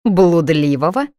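slow, rising disbelieving question; incredulous echo. Acted. Friend checks the insult she just heard, incredulous.

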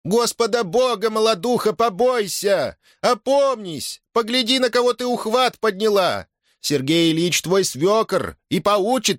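put-on old mother-in-law pleading with Дашутка; pleading old woman. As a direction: beg her to come to her senses. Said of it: "принялась увещевать Дашутку".

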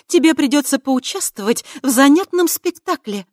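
high, loud, sly menace; scheming witch. A narrator's reading. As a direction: relish the wicked plan. Witch ordering Lestsova.

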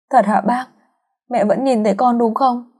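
high, small hopeful voice; girl asking the neighbor, high and hopeful. A narrator's reading. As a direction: ask like a child wanting to believe.

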